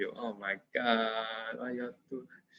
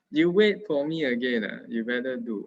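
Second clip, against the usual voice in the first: army sergeant; 5 dB louder than usual. Pretend. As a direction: scold the student like a drill sergeant. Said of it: "now is the army sergeant".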